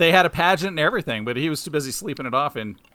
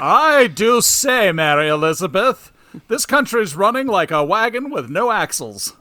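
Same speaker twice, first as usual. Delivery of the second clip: put-on old-timey voice; 3 semitones higher, 3 dB louder than usual. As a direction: draw it out like a frontier wife. Joking about Amish protesters.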